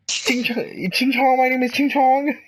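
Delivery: put-on very high caricatured Asian accent; squeaky-high stereotyped Asian accent; mock Asian accent. Podcaster demonstrating an offensive voice to friend, mock Asian accent. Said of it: "my very racist Asian voice".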